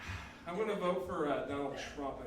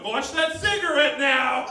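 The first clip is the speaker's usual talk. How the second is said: drawn-out, higher, loud yell; alarmed shout; 5 semitones higher, 9 dB louder than usual. Acted. Man covered in gasoline yells at a smoker, alarmed shout. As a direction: yell a slow, urgent warning.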